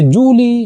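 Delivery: जूली pushed high and drawn out; stress on जूली. Shown as a demonstration. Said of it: "किसी विशेष शब्द पर बल दिया जाता है".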